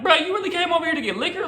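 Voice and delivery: high, laughing "really?" in disbelief. Retold or imitated. Narrator to friend buying liquor, laughing disbelief. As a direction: laugh it out at her, can't believe it.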